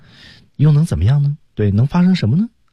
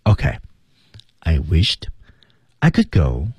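"Okay" - "I wished" - "I could go", a deliberate pause after each; restrained "Okay, I wished I could go", broken by teasing gaps; suspenseful pauses; 3 semitones lower than usual. Shown as a demonstration. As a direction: hold back between "Okay", "I wished" and "I could go". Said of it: "在停顿上是有意的在吓唬对方".

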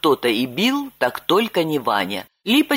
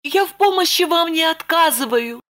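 put-on high, earnest young woman; Lipochka assuring; 12 semitones higher than usual. A narrator's reading. Lipochka assuring Roman she will help, high earnest voice. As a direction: reassure him sincerely. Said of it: "заверила Липочка".

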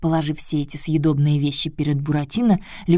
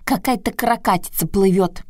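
croaking frog; 4 semitones higher than usual. Acted. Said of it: "квакнула одна".

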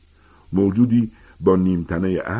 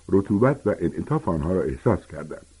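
ordinary delivery

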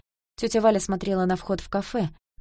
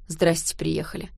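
grumbling. A narrator's reading. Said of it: "проворчал Стас".

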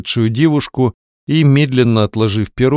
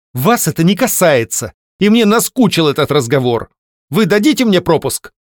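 nervous breathing; 6 semitones higher than usual. A narrator's reading. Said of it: "нервно дыша произнесла Варенька".

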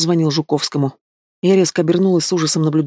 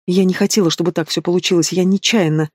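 tearful. Acted. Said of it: "всхлипнула".

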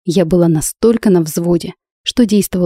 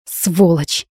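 through clenched teeth. A narrator's reading. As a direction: spit it out between clenched teeth in fury. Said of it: "процедила сквозь зубы".

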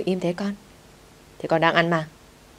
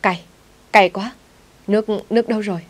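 loud, higher cries of burning mouth; yelling in pain; 4 semitones higher, 4 dB louder than usual. A narrator's reading. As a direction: shout for water, mouth on fire. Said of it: "Cậu hét lên". (hét lên vì cay, to và cao)

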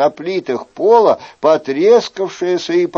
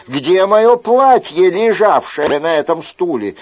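indignant Chicot; 4 semitones higher than usual. Acted. Chicot complaining to the innkeeper about the flimsy house, indignant. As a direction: scold the host, fed up.

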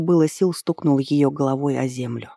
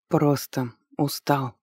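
hoarse whisper; slower than usual. A narrator's reading. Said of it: "хрипло прошептал он".

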